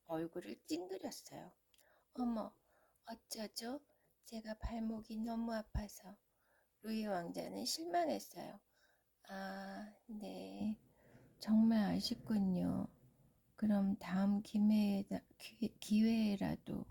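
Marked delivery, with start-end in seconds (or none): 2.1-6.2 put-on pitiful excuse, half whispered; fake-sorry princess voice. Princess fakes sore ankle. 9.3-16.8 stammering, let-down prince, loud; disappointed prince. Acted.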